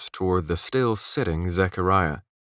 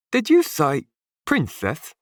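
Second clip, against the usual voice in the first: lisping sailor; 9 semitones higher, 4 dB louder than usual. A narrator's reading. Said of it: "said the lisping".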